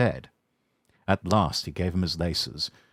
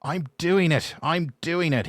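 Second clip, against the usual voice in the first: panting; 9 semitones higher than usual. Acted. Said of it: "he panted".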